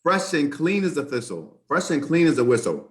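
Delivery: put-on lightly done Irish leprechaun accent from a soap ad; sing-song Irish ad jingle, half-hearted; mock Irish leprechaun accent. Imitating the Irish soap ad for the host, light Irish leprechaun accent. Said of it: "he sounds like a leprechaun".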